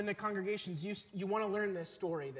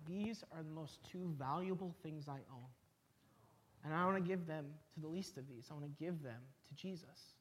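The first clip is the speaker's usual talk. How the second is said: put-on softly, gently quoted child; tender retelling; 2 semitones lower, 8 dB quieter than usual. Retold child explains his gift.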